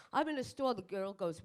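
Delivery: ordinary talk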